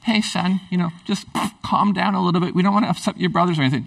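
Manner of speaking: casual, easygoing mock-dad reassurance; gentle fatherly chiding. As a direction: lightly brush it off as a lenient dad. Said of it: "his dad wasn't like".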